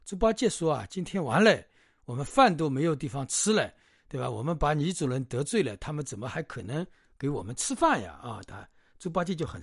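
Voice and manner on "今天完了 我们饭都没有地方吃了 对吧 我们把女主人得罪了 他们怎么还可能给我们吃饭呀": raised, a touch of a complaining grumble; mock-huffy complaint; grumbling. Bajie grumbling to his brothers about no meal, mildly cross. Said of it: "猪八戒就很生气".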